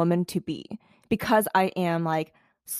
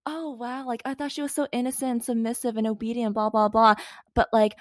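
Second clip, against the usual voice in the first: mocking quote; 3 semitones higher, 3 dB quieter than usual. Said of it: "they were like".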